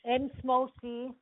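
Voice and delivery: letter by letter; spelling it out. Real, not acted. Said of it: "would you mind just spelling that for me".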